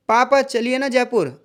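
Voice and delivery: slow, coaxing plea to dad; a child's gentle pleading request. Shown as a demonstration. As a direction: ask nicely, drawing it out. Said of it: "अनुरोध किया जा रहा है".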